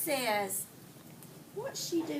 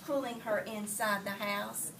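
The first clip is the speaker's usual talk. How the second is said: put-on expressive read-aloud for children; story reading. A narrator's reading. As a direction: read the story to the class, lively. Teacher reads picture book aloud.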